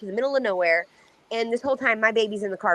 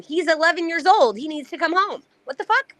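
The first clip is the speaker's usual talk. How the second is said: higher-pitched, exasperated retelling; rising indignant protest; retold outrage; 5 semitones higher than usual. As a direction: relive the fury at the officer, voice climbing. Retelling her angry reply to police.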